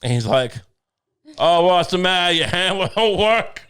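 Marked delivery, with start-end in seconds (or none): 1.4-3.6 mocking taunt. Jesus mocking the soldiers.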